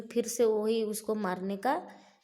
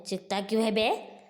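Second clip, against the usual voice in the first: mocking yell; 5 dB louder than usual. Bhima mocks the screaming demon.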